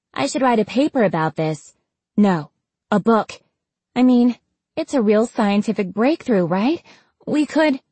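high, rushing enthusiasm; eager excitement. Acted. Scientist planning to write up her breakthrough, excited. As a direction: get carried away, pitch climbing to a cut-off.

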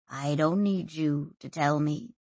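low, softened voice; quiet. A narrator's reading. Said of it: "he said quietly".

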